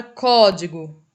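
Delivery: "código" loud, with weight on CÓ; first-syllable stress. Shown as a demonstration. Teacher giving a proparoxytone example, "código" stressed on CÓ. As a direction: hit the có of "código". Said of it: "a sílaba mais forte é o có".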